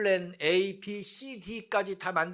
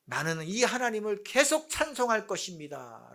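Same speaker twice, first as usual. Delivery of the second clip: raised declaration of faith; proclaiming; 3 semitones higher than usual. Acted. Psalmist declaring God as his hope, mildly raised proclamation. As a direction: declare it outward, firmly. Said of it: "라고 외쳤어요".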